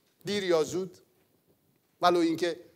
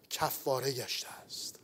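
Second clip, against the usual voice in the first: hushed whisper; 5 semitones lower, 12 dB quieter than usual. Acted. Angel's words of forgiveness, hushed. (نجوای آهسته و آرام)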